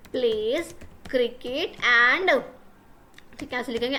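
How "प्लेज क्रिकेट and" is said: slow word-by-word dictation; dictating. Shown as a demonstration. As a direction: spell it out slowly for students copying. Dictating the sentence while writing.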